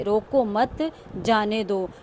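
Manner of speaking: "रोको मत" as one group, short break, then "जाने दो"; pause after मत. Shown as a demonstration. Teacher repeating the first sentence for students, break after "मत". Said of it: "पहले वाक्य में तो जैसे".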